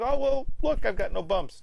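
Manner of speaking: a lightly voiced Lisa, pitched high. Lisa telling Bart her bumps are gone, in a high voice. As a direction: play Lisa high and brightly relieved. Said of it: "But then she's like".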